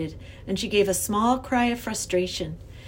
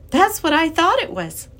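put-on high, louder girl's voice with a smile; smiling; 9 semitones higher, 8 dB louder than usual. A narrator's reading. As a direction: say it through a smile. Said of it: "Lindy said with a smile".

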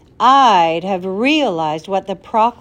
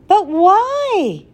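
high, loud protest; crying out; 11 semitones higher, 6 dB louder than usual. Acted. Tom protesting to the professor, high loud cry. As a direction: fling the question out in outrage. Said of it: "cried Tom".

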